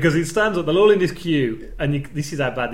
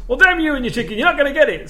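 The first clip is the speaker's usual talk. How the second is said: much higher and louder hammed-up rage; mock furious outburst; 10 semitones higher, 5 dB louder, faster than usual. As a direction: snap it at the customer in a tantrum. Podcast host acts out an angry chef.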